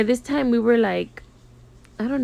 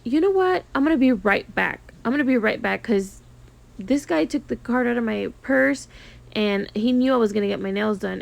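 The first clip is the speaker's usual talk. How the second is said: mock flustered client; 2 semitones higher than usual. Client pretending to fetch her card, mock flustered. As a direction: fake a flustered excuse to leave. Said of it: "So she's like".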